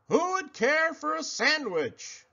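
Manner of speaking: high, sing-song call; calling closer. Acted. Hidden creature calls closer, high and sing-song. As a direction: draw the pig nearer. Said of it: "heard the voice again, closer and louder".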